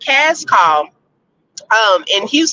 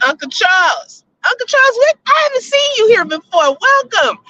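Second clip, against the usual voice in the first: laughing greeting; 10 semitones higher than usual. Real, not acted. Greets viewer while laughing.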